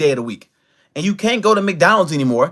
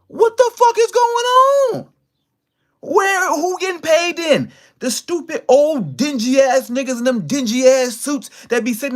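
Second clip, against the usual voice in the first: outraged disbelief; 6 semitones higher than usual. Real, not acted. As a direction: pitch it way up in stunned outrage. Outraged rant about unpaid workers.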